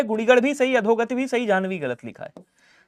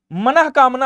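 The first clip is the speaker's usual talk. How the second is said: slow clear split; 2 semitones higher, 6 dB louder, slower than usual. Shown as a demonstration. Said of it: "मनोकामना नहीं".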